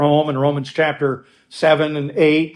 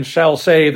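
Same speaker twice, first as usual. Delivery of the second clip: shall save, with save landed firmly and a bit louder; stress on save; 3 dB louder than usual. Shown as a demonstration. Pastor showing his listeners the emphatic word, stressing save. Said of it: "that's an emphatic word".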